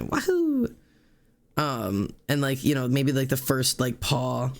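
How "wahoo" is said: much higher sarcastic whoop; mock cheer. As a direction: toss off a fake celebration.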